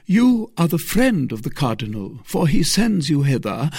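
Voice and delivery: a hint of a scheming lady; Milady. A narrator's reading. Narrator voices Milady.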